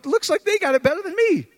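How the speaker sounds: the preacher mimicking his old self envying the worldly; mock envious whine. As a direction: sulk like a jealous kid. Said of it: "I'm going".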